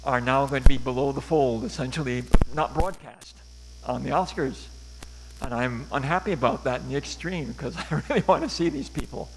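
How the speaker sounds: choppy bad connection; call dropping out. Real, not acted. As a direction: voice cutting in and out on a call. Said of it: "You're breaking up a little bit".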